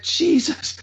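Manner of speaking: high-pitched exclamation of dismay; mock panic. Dad faking an accident before the kids, mock panic. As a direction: imitate his pretend horror.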